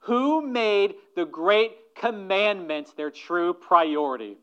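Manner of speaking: preacher voicing Jesus' pointed question; Jesus pressing the question. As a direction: press the lawyer hard with the question. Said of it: "So Jesus asked the lawyer".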